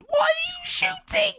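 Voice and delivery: high yell at a bad shot; frustrated shout. Real, not acted. Streamer yells at his footballer for shooting. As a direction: bellow in disbelief at the screen. Yelling at his player in-game.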